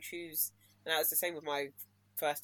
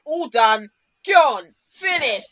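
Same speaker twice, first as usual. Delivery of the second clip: loud, clipped finality; curt; 8 semitones higher, 15 dB louder, much slower than usual. Retold or imitated. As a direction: slam the door on them. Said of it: "And they're like".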